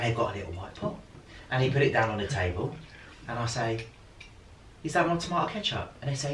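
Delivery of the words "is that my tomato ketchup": higher, lightly voiced surprised customer; Mickey Flanagan bit. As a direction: ask it a bit higher and doubtful. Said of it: "his thing where he goes".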